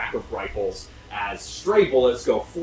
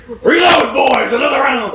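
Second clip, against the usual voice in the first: loud pirate captain shout; pirate yell; 14 semitones higher, 13 dB louder than usual. Acted. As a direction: bellow orders to the crew. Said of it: "I shouldn't be yelling".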